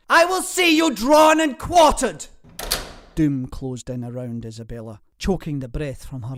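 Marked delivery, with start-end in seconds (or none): 0.1-2.3 much higher, louder threat; shouted threat. A narrator's reading. Dragged-off lord threatening his host, shouted. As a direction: hurl the threat back as you're dragged off. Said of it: "Lord Percy shouted".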